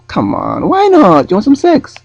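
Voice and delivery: woman pushing her offer, loud mock European accent. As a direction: urge him on in a mock Eastern European accent. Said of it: "try and do an accent".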